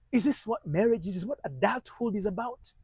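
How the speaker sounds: wondering. Retold or imitated. Young husband questioning married life to himself, bewildered. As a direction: question it all in mild, retold disbelief. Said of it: "He wondered, he said".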